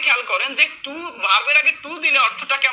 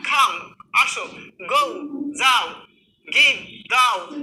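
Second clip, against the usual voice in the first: called out; slower than usual. Shown as a demonstration. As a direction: shout কাম, আসো as a summons. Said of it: "আমরা আসতে বলি না?". (জোরে ডাকা কাম, আসো)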